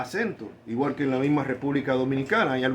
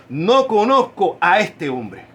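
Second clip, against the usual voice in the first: slow, louder oath of denial; swearing denial; 5 dB louder, slower than usual. Acted. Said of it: "comenzó a maldecir y a jurar".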